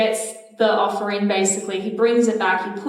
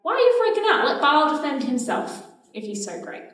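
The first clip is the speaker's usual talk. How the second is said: exasperated dad; 5 semitones higher than usual. Retold or imitated. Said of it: "Gideon's dad is like".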